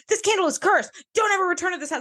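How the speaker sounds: a hint of a spooky stranger telling her the candle is cursed; mock ominous warning. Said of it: "where he's like".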